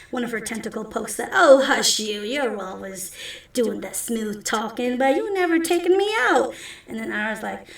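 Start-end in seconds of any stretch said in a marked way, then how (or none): 1.3-6.5 swat the compliment away playfully; flirty cook. Acted. Anna teasing Ira for never taking her out, coy.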